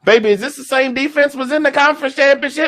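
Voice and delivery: high, astonished questioning; asking his wife if this is the same defense, stunned; amazed to his wife. Retold or imitated. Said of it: "I said".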